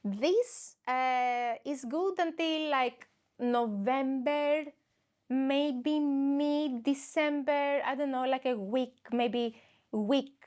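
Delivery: slow, drawn-out mock shop clerk; lightly voiced deadpan shop assistant; mock Swedish clerk. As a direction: stretch it out like a clerk sizing you up. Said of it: "And the guy was like".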